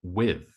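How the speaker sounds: "with" said alone with weight; stressed word. Shown as a demonstration. Teacher naming the stressed word, weighted "with". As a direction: give "with" full weight. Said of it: "We would stress".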